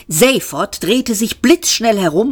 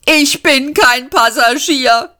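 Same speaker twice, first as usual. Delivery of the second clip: indignant snort, higher and slow; 8 semitones higher, 3 dB louder, slower than usual. A narrator's reading. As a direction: huff the words out in protest. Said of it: "schnaubte Seyfort". (Seyfort schnaubt empört, langsam und höher)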